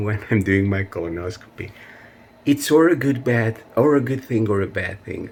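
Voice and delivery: nervous laugh about her colonoscopy. Real, not acted. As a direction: laugh it off instead of crying. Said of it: "I laugh when I should cry".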